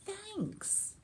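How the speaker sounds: a timid bear murmuring thanks; shy bear. Acted.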